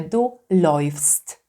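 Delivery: läufst said as loyfst; läufst with the äu spoken as oj. Shown as a demonstration. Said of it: "wymówimy jako oj". (läufst wymówione jako „lojfst”)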